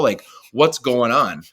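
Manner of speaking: drawn-out, slow anxious demand; slowed anxious plea. Retold or imitated. Left-out player pleading to know what's happening. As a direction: let the panic sag into a slow plea. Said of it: "fear, anger".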